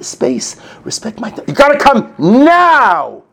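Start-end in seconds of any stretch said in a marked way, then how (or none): 1.5-3.2 high, loud, drawn-out calling; hammed-up parent yelling for the kid; urgent call. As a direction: call them in from the other room.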